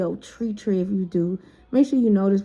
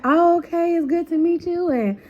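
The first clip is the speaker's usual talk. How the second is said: lightly voiced girly friend; 8 semitones higher than usual. Ladybug greeting, high voice.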